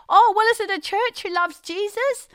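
high, loud questioning; bright challenge. Retold or imitated. Passenger challenging a whispering crew member. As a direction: challenge them with glee.

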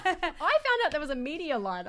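laughing. Real, not acted. Joking about the media line, laughing. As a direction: laugh it out before the punchline.

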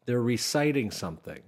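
ordinary talk

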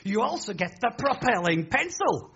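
slow, drawn-out salesman build; mimicking the shopping channel's "not only" pitch; advert voice. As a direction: tease the next bonus like a TV seller. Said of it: "they say".

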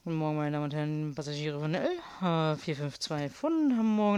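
airport gate announcer voice; airport announcement. Pretend. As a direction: read a flight call over speakers. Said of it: "was ich auch noch immer machen wollte".

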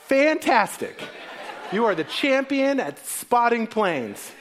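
high, amused fake praise; mock enthusiasm. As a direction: humor the kid, laughing. Dad answering child, mock praise.

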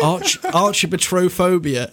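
archibotrophobia said slowly, syllable by syllable; slow careful pronunciation. Shown as a demonstration. Host asks him to say the phobia word, slow careful try. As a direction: spell out archibotrophobia slowly, each part clear. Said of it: "I'm just gonna say it".

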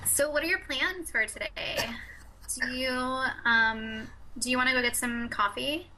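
put-on SoCal valley girl accent; California voice. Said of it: "do your California voice?".

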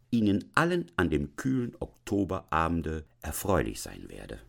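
lilting, measured literary reading; story narration. A narrator's reading. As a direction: read the classic tale aloud, savouring long phrases. Reads Hoffmann story aloud.

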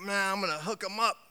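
God speaking, building to a proud shout; light God voice rising to a loud proclamation; voicing God. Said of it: "He's like".

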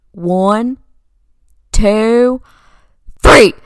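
imitated dad's countdown, spaced out and escalating; building countdown shout. Dad counts down to the whack.

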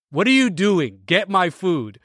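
reliving the rage at the window; retold angry snap. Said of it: "when I get angry like that".

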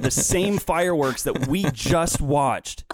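indignant soapbox rant. Real, not acted. Family member griping about firework pictures, worked up. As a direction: climb on your soapbox, exasperated. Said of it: "get down from your soapbox now".

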